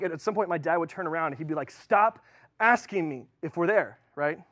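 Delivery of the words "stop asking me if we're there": louder snap, then easing off; a fed-up father cutting the kid off; irritated dad. Retold or imitated. Dad turning around to the nagging kid, mock annoyed.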